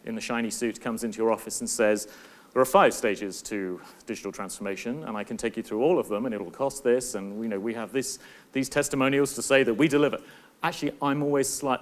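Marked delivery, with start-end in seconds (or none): 2.5-10.2 put-on a light American accent, like a slick consultant's sales pitch; mock American accent. Consultant in a shiny suit pitching in your office, light American accent. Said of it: "I don't know why I did American accent".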